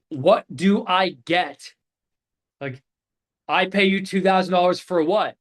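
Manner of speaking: slow, pressing demand from an annoyed client; mild mock annoyance, slowed right down; getting angry. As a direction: drag out each word like an annoyed prospect. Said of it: "getting angry".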